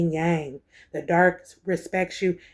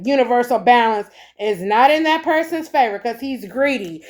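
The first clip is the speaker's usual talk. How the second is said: excited; 3 semitones higher than usual. Real, not acted. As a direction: preach it with rising excitement. Excited tarot reading, ancestors upset.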